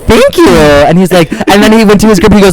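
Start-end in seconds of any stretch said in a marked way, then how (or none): 0.1-0.5 very high, squeaky little reply; mock-polite thanks. Replying to a stranger who mocked the hair, mock-polite squeak. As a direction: imitate an awkwardly polite high-pitched thanks. Her awkward reply to insult.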